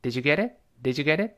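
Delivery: "Did you get it?" as "didja geddit", rising; weakened you, linked. Shown as a demonstration. Teacher models the easy spoken question, reduced "Did you get it?". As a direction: run "did you get it" together with a weak "you". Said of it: "那个you也弱化成也".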